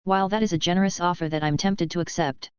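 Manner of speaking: flat monotone voice. Acted. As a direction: say it with no expression at all. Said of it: "Lars said with a monotone voice".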